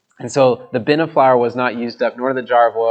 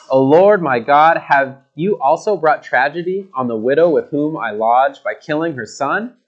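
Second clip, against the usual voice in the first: crying out to God. Acted. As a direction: call out to God in distress. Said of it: "he cried out to the Lord and said".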